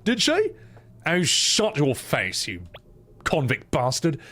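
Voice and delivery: high, mocking Australian kid voice; cheeky Australian taunt; teasing character voices. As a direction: needle the other kid, Australian style. Voicing game characters.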